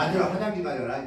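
bossy order. Shown as a demonstration. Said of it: "그걸 바꿔보세요".

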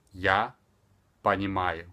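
"Я" alone, long pause, then "понимаю"; spaced-out teaching delivery; extremely slow. Shown as a demonstration. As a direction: split the two words far apart. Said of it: "speaking extremely slower".

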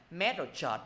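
"Match rồi chợt" as separate Vietnamese-sounding syllables; Vietnamese phonetic spelling. Shown as a demonstration. Teacher giving the class a memory aid, syllable-by-syllable Vietnamese reading. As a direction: break "Match rồi chợt" into "met", then "chợt". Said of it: "phiên âm ra thầy nè".

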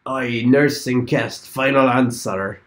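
slow, drawn-out put-on English accent; mock English accent. Guessing the clue, a mock English accent. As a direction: lean into a hammed-up English accent. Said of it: "English people do American accents".

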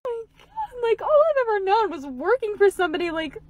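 overcome, fighting back tears; choked up. Real, not acted. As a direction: talk through welling emotion. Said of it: "Hold on, let me compose myself".

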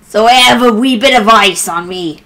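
badly faked sailor-pirate accent; attempted pirate accent. Shown as a demonstration. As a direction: have a clumsy go at pirate talk. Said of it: "okay, that was bad".

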